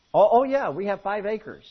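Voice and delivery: naive lady. Acted. Lady in divorce joke.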